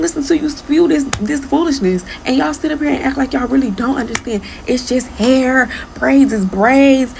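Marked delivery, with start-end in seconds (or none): 4.7-7.1 slow, mocking drawn-out quote; mocking mimicry. Creator mimics commenters who act like they don't understand, slow mockery. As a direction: drag it out to mock their excuse.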